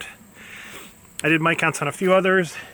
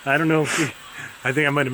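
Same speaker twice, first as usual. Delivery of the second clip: laughing nervously while talking; uneasy laugh at an angry bee; much faster than usual. Real, not acted. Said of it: "That's a nervous laugh".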